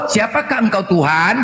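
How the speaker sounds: slow, reverent rising question; mock-pious slow question; pious formal question. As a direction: ask it humbly, slowly. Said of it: "Nampak kali nipu kau".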